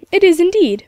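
breathless whisper, overcome with feeling; choked whisper. A narrator's reading. Grandfather to grandson after finding his son, overcome whisper. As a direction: barely get the words out before breaking down.

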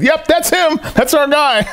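high-pitched imitation of a delighted crew; amused recognition. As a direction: confirm it gleefully, breaking into laughter. Crew gleefully recognizing his manner.

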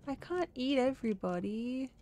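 mock protest. Player protests as the dinosaur.

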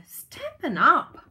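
Stampin' Up drawn out loud and thrilled; excited. Real, not acted. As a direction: call out the brand name with joy. Gushing over the kit box.

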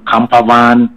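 "camper van" slow and drawn out, Black Country style; Black Country drawl. Shown as a demonstration. Showing a friend how Black Country folk drag "camper van". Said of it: "ɔtwem kakra".

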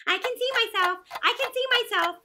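loud self-admiring narcissus; vain narcissus. Acted. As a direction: show off to the world.

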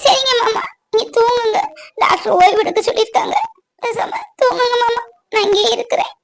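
weepy reassurance at the bedside; tearful soothing. Acted. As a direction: coax him to rest through tears. Tearful wife soothes patient to sleep. (அழுகையை அடக்கி ஆறுதல் சொல்லும் குரல்)

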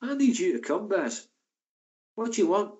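wife calling him over, lightly mimicked high; imitating Rosie. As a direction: pitch her up and nag a little. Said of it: "Rosie goes".

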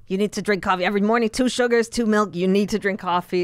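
retold outrage, insistent and quick at first; mock-scolding, pushing out each order; outraged psychic. Psychic lecturing a client about drinking coffee, mock outrage. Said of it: "She was, like, outraged".

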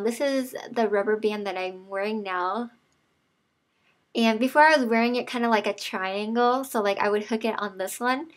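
lip pulled aside by finger; talking around a finger; finger in mouth corner. Real, not acted. Seen 0: finger hooks mouth corner on and off, showing her braces.

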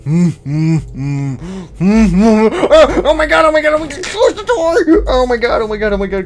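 very high, loud repeated cries; panicked shrieking. Real, not acted. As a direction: shriek it, half laughing. Monster behind open door.

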